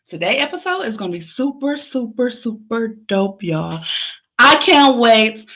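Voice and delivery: breathless from running and dancing; out of breath, gasping between phrases. Real, not acted. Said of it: "I'm out of breath 'cause I was, like, running".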